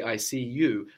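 weight on final "you"; stress on YOU. Shown as a demonstration. Teacher asking student for emphatic you, stress on "you". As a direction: land firmly on "you". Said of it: "you are emphasizing this you".

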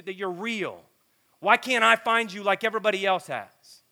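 impassioned retold outburst of spiritual frustration; anguished questioning. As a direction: cry out in frustration, voice lifted. Acts out anguished questioning of God.

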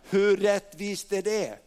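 ordinary talk, nothing marked

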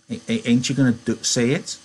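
high, eager simple-minded giant; Lenny voice. Acted. Lenny pleading.

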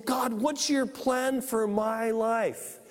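MY leaned on and drawn out in "my life"; slow prayer with weight on "my"; stress on MY. Acted. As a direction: put the emphasis on "my life". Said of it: "the emphasis is on my life".

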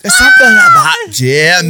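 high, loud hammed-up Northern English accent; loud bad Northern accent. Host shouting a terrible Northern English accent for laughs. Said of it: "This is my version of a".

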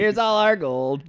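high excited offer. Acted. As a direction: gleefully hand it all over. Mock generous offer.

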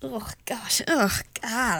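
hushed oh God of embarrassment; horrified whisper. Retold or imitated. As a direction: whisper it like you can't bear the thought. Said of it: "I'm like".

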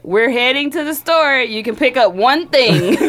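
slow, polite mock parent errand; lightly played gentle parent; mock white parent. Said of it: "White parent".

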